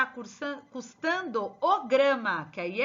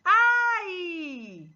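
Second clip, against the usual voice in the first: loud, higher, drawn-out mock "ai"; demonstrated cry of pain; 5 semitones higher, 5 dB louder than usual. Shown as a demonstration. Teacher demonstrating an interjection of pain, mock pained cry. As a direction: let out a long acted ouch.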